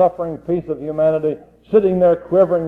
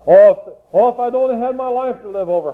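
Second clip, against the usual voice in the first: despairing cry; 7 semitones higher than usual. Retold or imitated. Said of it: "cried out in despair".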